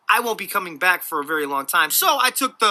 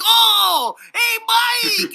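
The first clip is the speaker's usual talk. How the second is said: sing-song high greeting to a neighbour; a neighbour greeting Mike with fake delight, high sing-song; mock friendly call; 5 dB louder, much slower than usual. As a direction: call out with fake cheer, much higher. Calls out mockingly to Mike.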